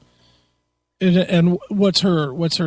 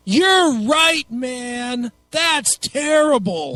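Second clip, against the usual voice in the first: mock outrage; 5 semitones higher, much slower than usual. Mocking sympathetic tweet replies.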